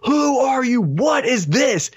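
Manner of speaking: a half-hearted yell into the hallway; mock yell. Host acting the wrestler calling out the door, a mild mock yell. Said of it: "he just yells in out the door".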